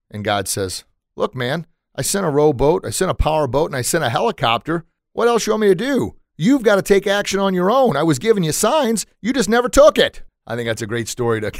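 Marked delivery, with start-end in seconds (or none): 1.2-10.2 high-pitched scolding, building louder; acted God losing patience; mock exasperation, rising to a loud high finish; exasperated reply. Exasperated God answers the complaint.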